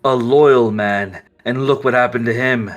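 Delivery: lightly voiced ruthless vampire, persuasive; Volturi scheming. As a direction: pitch world domination with cold conviction. GM voicing Volturi's scheming speech.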